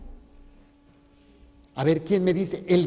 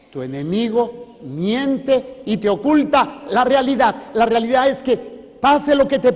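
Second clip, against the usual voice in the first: forceful proclamation; 4 semitones higher, 5 dB louder than usual. Acted. Preacher declaring to the congregation what fear is, forceful. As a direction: drive the point home to the crowd.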